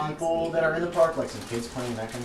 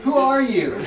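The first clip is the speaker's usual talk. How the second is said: higher, louder puzzled student; baffled college kid; 10 semitones higher, 4 dB louder, much slower than usual. Acted. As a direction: react like a confused student. GM voices wary college kid.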